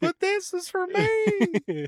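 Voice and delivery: high, slow wrestler catchphrase; hammy wrestling promo delivery. Pretend.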